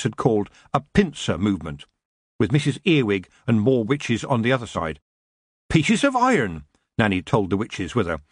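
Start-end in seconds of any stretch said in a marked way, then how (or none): 5.7-6.7 high-pitched, knowing witch; lightly voiced old witch. Witch explains the weapon to her companions, knowing.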